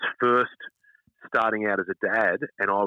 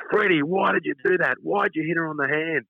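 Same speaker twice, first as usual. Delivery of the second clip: put-on higher, pointed telling-off of a toddler; stern dad; 7 semitones higher than usual. Dad confronting his son at the sandpit, stern. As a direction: call him out sharply, parent to child. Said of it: "I walk out and I go".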